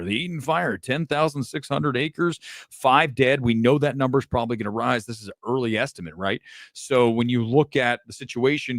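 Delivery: measured newscaster delivery; news anchor read. Acted. Anchor reporting the fire on air, newscaster read.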